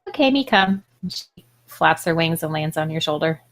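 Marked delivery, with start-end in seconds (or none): 0.1-0.8 put-on higher, childlike creature voice; little fairy voice speaking simple words; pixie voice. The pixie answers, agreeing.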